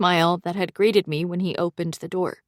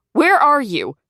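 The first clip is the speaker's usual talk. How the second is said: higher, louder urgent question; anxious demand; 8 semitones higher, 7 dB louder than usual. Acted. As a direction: press for an answer, worried. Zoe anxious on the phone.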